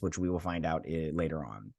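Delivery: whispered, voice dropped to nothing; spoiler whisper. Real, not acted. Keeping a future plot twist from viewers, whispered. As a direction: lean in and whisper so the spoiler stays secret.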